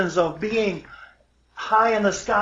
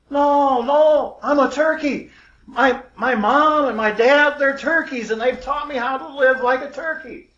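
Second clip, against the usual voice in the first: put-on higher, louder young bird objecting; acted indignant denial from a confused eaglet; insistent protest; 4 semitones higher, 4 dB louder than usual. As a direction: protest earnestly, pitched up. Lost eaglet protests owl's claim.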